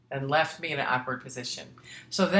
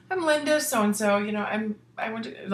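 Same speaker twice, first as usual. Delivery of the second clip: imitating Linda; 6 semitones higher than usual. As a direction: introduce yourself brightly as the old classmate. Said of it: "She said".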